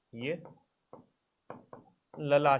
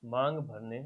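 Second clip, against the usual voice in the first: dictation; 3 semitones lower, 11 dB quieter, slower than usual. Shown as a demonstration. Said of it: "लिखो इसमें".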